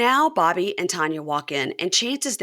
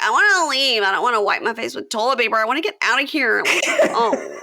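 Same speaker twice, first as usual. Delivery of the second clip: higher, louder, whiny; mock tearful Taylor; 4 semitones higher, 4 dB louder than usual. Taylor crying in the bathroom, mock whine. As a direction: whimper to go home, hammed up. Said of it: "Taylor's like".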